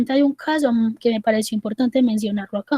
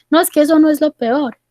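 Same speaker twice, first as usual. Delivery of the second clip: higher-pitched, acted protest; insistent objection; 4 semitones higher, 4 dB louder than usual. Patient rejects the psychologist's consolation, insistent. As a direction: push back as the unconvinced patient.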